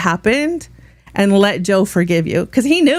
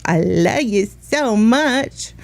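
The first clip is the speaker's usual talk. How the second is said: warm sign-off; much slower than usual. Real, not acted. Sign-off to viewers.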